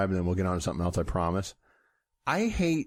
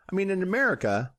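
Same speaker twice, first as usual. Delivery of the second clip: put-on Yakov Smirnoff accent; 8 semitones higher, faster than usual. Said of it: "this almost sounds like Yakov Smirnoff".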